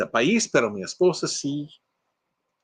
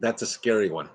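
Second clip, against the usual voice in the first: ordinary talk, nothing marked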